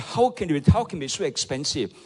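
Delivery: hammed-up shock of a tourist.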